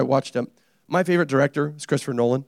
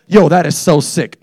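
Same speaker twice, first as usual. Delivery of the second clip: loud, slow slangy "Yo, that is so sick"; drawn-out hip slang, played big; slangy teen; 2 semitones higher, 6 dB louder than usual. Preacher mocking slang for a laughing church, loud and slow. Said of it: "when we say".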